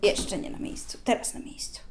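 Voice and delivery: soft whispered narration; whispering. Real, not acted. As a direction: murmur it under your breath. Quiet commentary to toddler.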